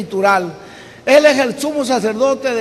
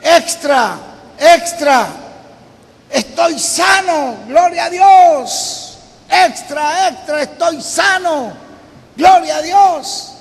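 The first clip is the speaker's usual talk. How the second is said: loud, high street-vendor cry of extra, extra; newsboy shouting; 5 semitones higher, 5 dB louder, slower than usual. Retold or imitated. Healed paperboy shouts his good news to the street, loud, high newsboy cry. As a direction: bellow it like a paperboy selling the news. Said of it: "era un vendedor de periódicos y gritaba".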